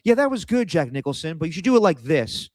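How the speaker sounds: high, breezy mock director's note; lightly hammed director giving an actor notes; imitating the director. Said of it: "like, tell you".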